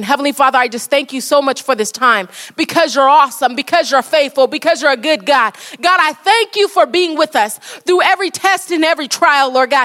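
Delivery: earnest, steady prayer to close the service; closing prayer. Acted. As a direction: pray it out, thankful and sincere. Closing prayer after the sermon.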